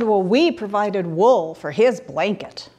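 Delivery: slow, changed sheep voice; a boastful little sheep, taking its time. Acted. Sheep boasting about its wool, slow voiced. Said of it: "And the sheep said".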